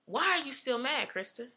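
softly voiced therapist's question; therapist's gentle probing. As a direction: drop to a soft voice, imitating a counselor.

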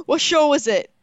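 gasping, high and eager; surprised gasp. Real, not acted. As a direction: react with delighted shock. Gasps at news.

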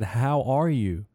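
slow, lifted, smiley hello; big-smile greeting. Retold or imitated. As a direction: stretch it out through a big smile. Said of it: "while smiling real big".

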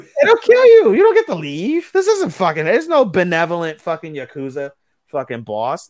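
high, loud burst of disbelief; incredulous outburst. Real, not acted. Podcaster scoffing at a benevolent Yakuza boss, incredulous outburst. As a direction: blurt it out, pitch shooting way up, then easing down.

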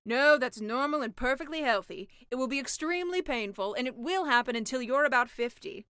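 deadpan the gross detail; sea witch voice. Acted.

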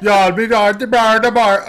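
loud, garbled Jamaican imitation; mock Jamaican. Host imitating the narrator's title reading, mock Jamaican. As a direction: mimic a badly done Jamaican accent, loudly. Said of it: "I heard Jamaica".

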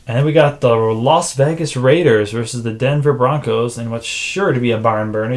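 flat, deadpan monotone delivery; droning, unenthused monotone. Real, not acted. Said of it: "really tell the enthusiasm in my monotone voice".

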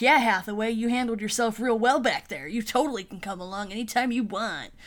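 bro-ing it up in a retold quote; imitated bro enthusiasm. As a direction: hype her up like a fellow bro. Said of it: "totally broing it up with her".

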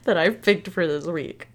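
trying not to laugh. Real, not acted. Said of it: "I'm trying not to laugh".

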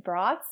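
"brats" said with a broad open vowel, like "brots"; audiobook pronunciation. Retold or imitated. Quoting the audiobook reader, "brats" with a broad vowel. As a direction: say "brats" as the audiobook narrator did, rhyming with "lots". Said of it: "pronounced it brats".

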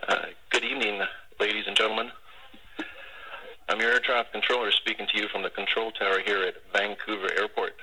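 proposal over tinny radio; heartfelt announcement over a crackly radio; air traffic control radio. Real, not acted. Played air traffic control recording.

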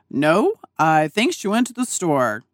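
lightly voiced terse dad, brief and matter-of-fact; a hint of a no-nonsense father; dad's curt voice. Retired FBI dad answering daughter's call, terse and calm. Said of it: "That's how my dad talks".

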